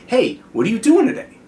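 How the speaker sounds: "Hey, what are you doing today?" asked high, pitch climbing at the end; question intonation. Shown as a demonstration. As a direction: demonstrate a question by lifting "today" upward. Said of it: "questions go up".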